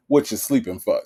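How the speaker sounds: a light hint of a gruff husband; Nesto voice. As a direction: toss the question lightly at a napping husband. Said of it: "in my Nesto voice".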